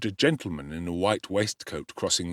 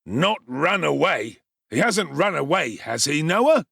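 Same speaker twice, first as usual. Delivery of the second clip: anxious beadle; 6 semitones higher, 4 dB louder than usual. Acted.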